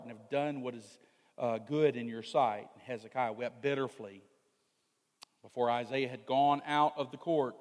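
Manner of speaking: measured, low-pitched Bible reading; scripture reading. A narrator's reading. Preacher reads Hezekiah's story to congregation, solemn scripture reading.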